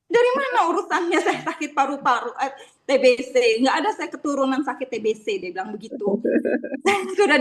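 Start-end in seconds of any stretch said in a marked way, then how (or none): 0.1-5.4 menirukan protes pasien, nada agak tinggi; marah. Retold or imitated. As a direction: bantah dengan kesal. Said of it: "dia langsung marah". (pasien membantah dokter dengan kesal)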